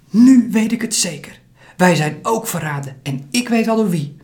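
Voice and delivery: put-on an excited boy realising who betrayed them; agitated outburst. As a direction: it all falls into place for him. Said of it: "de opgewonden jongens".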